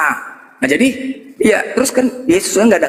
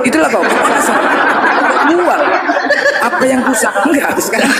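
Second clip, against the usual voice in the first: laughing; 8 semitones higher, slower than usual. Real, not acted. Laughing while accusing friend.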